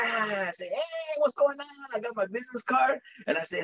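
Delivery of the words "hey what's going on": upbeat greeting. Retold or imitated. Greeting prospects at meeting.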